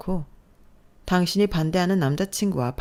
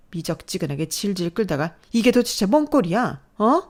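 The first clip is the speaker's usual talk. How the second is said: louder, rising berating; angry scolding; 3 semitones higher, 4 dB louder than usual. Acted. Mother berating crying daughter, angry. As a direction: scold her without letting her speak. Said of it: "자신의 화를 주체하지 못하는 모습".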